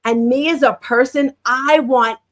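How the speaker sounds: normal talking voice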